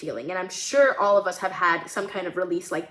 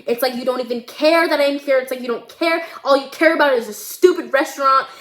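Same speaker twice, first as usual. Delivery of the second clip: mildly raised, upset voice; hurt accusation; 4 semitones higher, 4 dB louder than usual. Acted. Daughter accusing mother over the restaurant, upset. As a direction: throw it at her as a reproach.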